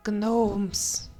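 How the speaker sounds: excited shout. Real, not acted. Excited exclaim on finding item.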